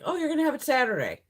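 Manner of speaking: mock announcement. Streamer quoting her parcel tracking, mock announcement. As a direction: parrot the promise, high and quick.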